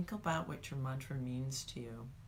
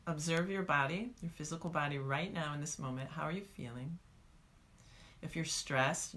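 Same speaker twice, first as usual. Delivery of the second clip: guided meditation. Shown as a demonstration. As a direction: ease them through a body scan. Guided body scan.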